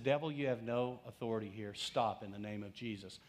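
quiet, steady command, no shouting; calm rebuke. Retold or imitated. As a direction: rebuke the devil calmly, no drama. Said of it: "I said it calmly, didn't scream, no drama".

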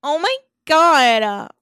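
mock teenage outrage, high and drawn out; whiny teenager. Podcaster mocking a teen whose diary was read, melodramatic teenage outrage. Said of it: "How fucking teenage can you get".

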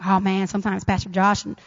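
mock a grumbling listener; a hint of a grumbling churchgoer; whining congregant. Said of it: "That's 'cause we love y'all".

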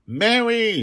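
high, loud cry of the name; child's shout. Acted. Child calls out to her nanny who was pierced, shouting. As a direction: shout it out in sudden alarm, pitched high. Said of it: "she shouted".

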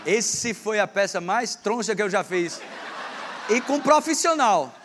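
laughing, slow and high. Real, not acted. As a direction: crack up at the bad skit. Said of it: "pastor rindo da peça". (rindo da peça)

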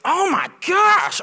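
high, slow, hammed-up dismay; dramatic wife. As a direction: imitate a wife overreacting, stretching every word. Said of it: "my wife is so dramatic".

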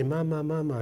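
put-on child echoing. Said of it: "and they say".

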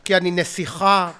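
slow imitated stand-up bit; Sagi Friedman. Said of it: "שים שגיא פרידמן".

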